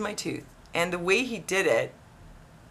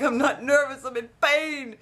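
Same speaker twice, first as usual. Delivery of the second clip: retold high-pitched insistence; exasperated protest; 6 semitones higher than usual. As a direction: protest indignantly, pitched well up. Patient protests to disbelieving dentist.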